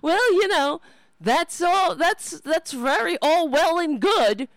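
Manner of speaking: hammed-up pundits brushing it off; mock smug pundits. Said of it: "they're like".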